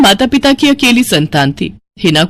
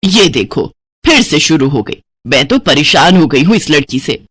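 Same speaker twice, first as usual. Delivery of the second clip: acted weary scolding, slightly lower; exasperated mother; 6 semitones lower than usual. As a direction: grumble about a daughter, fed up. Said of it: "क्यों इतना गुस्सा कर रही हो". (झुंझलाई हुई माँ)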